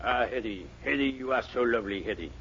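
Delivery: low, soft, swooning romantic voice; lovesick impression. Dennis tries a romantic star for Mr. Anderson, soft and low swoon. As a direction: swoon over Hetty like a screen lover.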